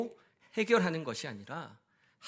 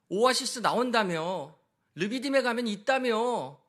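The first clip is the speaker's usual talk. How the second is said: mock angry complaint; 4 semitones higher than usual. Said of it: "사람들이 막 소리치면서".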